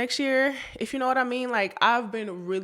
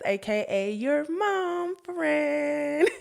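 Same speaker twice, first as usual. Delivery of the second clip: slow stylized intro; 7 semitones higher, much slower than usual. Acted. Podcast intro catchphrase.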